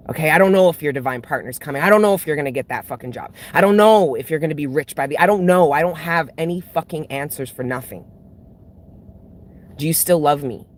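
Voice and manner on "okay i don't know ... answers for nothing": exasperated rant. Real, not acted. Frustrated rant, no answers.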